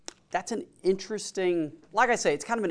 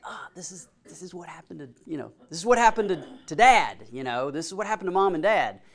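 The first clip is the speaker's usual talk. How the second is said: acted excited realisation, building louder; 2 semitones higher, 6 dB louder than usual. Jacob realising his parents' story is repeating, excited. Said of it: "he's excited because he's like".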